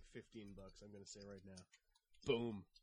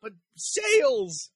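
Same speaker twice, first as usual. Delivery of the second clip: loud exclaim; 8 semitones higher, 10 dB louder, much slower than usual. Acted. Jokey exclaim back at price talk.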